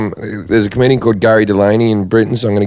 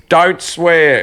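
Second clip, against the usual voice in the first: lightly imitated mum, higher pitched; mock telling-off; scolding mum; 6 semitones higher than usual. Mum scolds comedian over the phone on stage, mock scolding.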